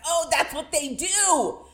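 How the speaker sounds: drawn-out aha moment; mock realization. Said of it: "we would all been like".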